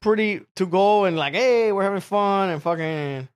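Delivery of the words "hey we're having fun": higher, slow drawn-out cheer; mock partying. Tourist partying near poverty, mock cheering. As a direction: imitate a carefree reveler, stretched out.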